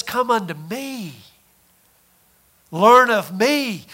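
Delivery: a hushed, slow invitation; inner voice. Acted. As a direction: call them gently, like a voice inside. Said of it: "You hear a voice inside that says".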